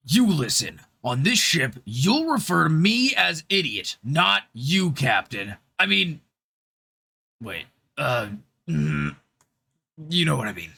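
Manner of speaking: lightly done macho hero barking orders; generic male action hero. Acted. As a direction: play it like a hammed-up action movie captain. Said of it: "a generic male action hero".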